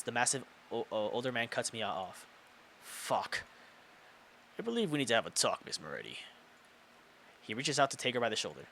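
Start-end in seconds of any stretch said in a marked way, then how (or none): 2.8-3.4 whispered curse. Real, not acted. Aside under breath. 4.6-6.2 lightly voiced stern teacher. Big teacher stopping Mia.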